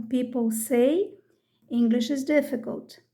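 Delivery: slow, careful teacher read. Shown as a demonstration. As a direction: spell it out slowly for learners. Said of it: "Inglês é difícil é ler a mensagem".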